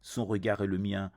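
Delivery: measured poetry reading with pauses between phrases; solemn verse delivery, line by line; poem recitation. Acted. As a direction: recite it evenly, in a narrow pitch range. Recites their own poem.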